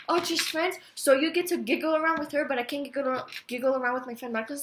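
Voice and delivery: high, loud mocking; mock his excuse back at him; sarcastic retort. Throwing his excuse back at the boyfriend, sarcastic and loud.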